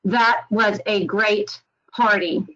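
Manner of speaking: flat synthetic read, no emotion; computerized voice. Shown as a demonstration. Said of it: "a synthetic voice or a computerized voice".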